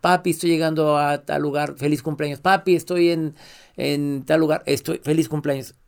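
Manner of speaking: a hint of a girl on a travel video; imitating daughter's video. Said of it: "un video de todos los lugares".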